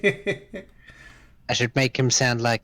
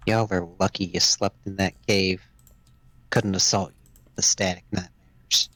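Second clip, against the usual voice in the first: put-on southern accent; 4 semitones lower than usual. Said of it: "Intriguing accent going on there".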